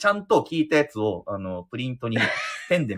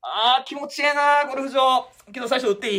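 relaxed golfer; 13 semitones higher than usual. Pretend. Acting golfer on course.

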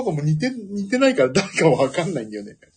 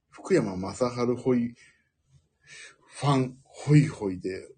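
mock angry commenter; 5 semitones lower, 5 dB quieter, slower than usual. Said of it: "っていうコメントがいっぱい書かれる".

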